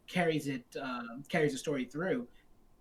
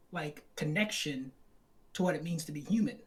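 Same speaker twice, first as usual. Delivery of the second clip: hoarse, fading voice; losing voice. Real, not acted. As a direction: voice giving out. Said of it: "I'm losing my voice".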